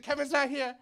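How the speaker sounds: high, loud realization; mom realizing. Retold or imitated. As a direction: mom suddenly catching on. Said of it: "The mom gets it".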